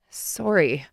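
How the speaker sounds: sleepy yawned apology; yawning. Acted. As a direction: say it through a yawn. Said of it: "I yawned".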